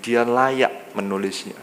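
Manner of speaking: slow, low voice of God speaking; solemn and unhurried, lightly voiced; a hint of God rebuking, slow and low. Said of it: "Tuhan jawabnya begini".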